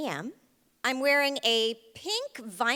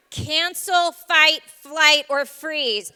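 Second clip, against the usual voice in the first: frantic cancel; 4 semitones higher, 8 dB louder, much slower than usual. Acted. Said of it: "so I'm like".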